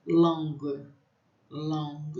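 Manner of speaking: long with a nasal o; French long. Shown as a demonstration. Teacher drilling nasal vowel in long. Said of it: "o A anasalado".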